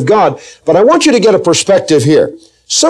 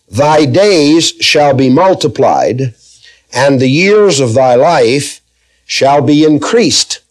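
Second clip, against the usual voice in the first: slow, measured Bible reading; scripture reading; slower than usual. Real, not acted. Preacher reading Proverbs to the congregation, slow scripture reading. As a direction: read the verse out slowly, phrase by phrase.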